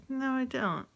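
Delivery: jumps up high in denial; high protest. Retold or imitated. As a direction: insist innocently, pitched high. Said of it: "And I was like".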